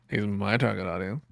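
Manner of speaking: low, soft seductive purr; sultry voice. Retold or imitated. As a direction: breathe it like a perfume ad. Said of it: "Why did you say that in a sultry voice?".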